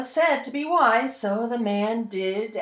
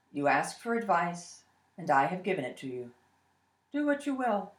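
put-on old rabbi voice; 6 semitones lower, 8 dB quieter than usual. Rabbi calm reply.

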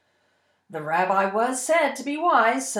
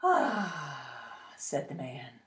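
relieved sigh; 9 dB quieter, much slower than usual. Acted. Relieved man at the end.

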